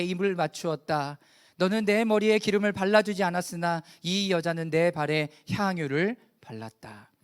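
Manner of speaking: measured, steady reading voice; solemn public Bible reading; scripture reading. Acted. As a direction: read the verse out firmly and evenly. Reads scripture aloud.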